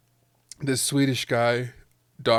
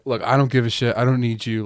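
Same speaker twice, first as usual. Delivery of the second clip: mock threat; 2 semitones higher, 5 dB louder, faster than usual. Blackmailer threatening the wife.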